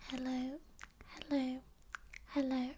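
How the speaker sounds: gentle soft-spoken hello with some voice; calm ASMR soft speaking. Shown as a demonstration. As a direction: say hello softly, lightly voiced. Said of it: "So you can also say".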